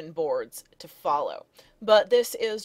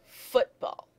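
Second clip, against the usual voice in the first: "football" with both syllables stressed; spondaic stress. Shown as a demonstration. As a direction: give FOOT and BALL equal weight.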